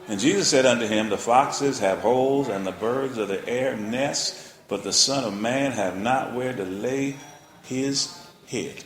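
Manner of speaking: slow, measured scripture reading. Acted. Preacher reading verse to congregation, slow and measured. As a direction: read the verse slowly to the flock.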